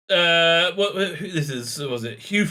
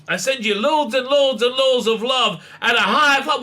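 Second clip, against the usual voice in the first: mock gushing presenter; 7 semitones higher, 3 dB louder than usual. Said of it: "Whittaker told him".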